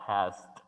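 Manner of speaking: passed pronounced like "past"; passed in one syllable, T at the end; final T sound. Shown as a demonstration. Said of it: "Suena más como la palabra pasado".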